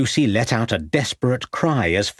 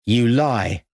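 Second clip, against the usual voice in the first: retort. A narrator's reading. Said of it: "retorted Drew".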